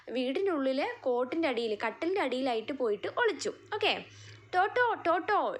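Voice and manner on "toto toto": higher-pitched, slow story call for a dog. A narrator's reading. Dorothy searching the house for Toto, mild calling out. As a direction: call out slowly, a little raised, as in a story. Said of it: "ഉറക്കെ വിളിക്കുകയാണ്".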